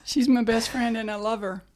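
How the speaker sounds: attempted Southern movie line; Southern accent. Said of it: "doing Southern accents".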